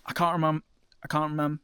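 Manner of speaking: tripping over words from cold; cold lips. Real, not acted. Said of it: "my lips are so cold".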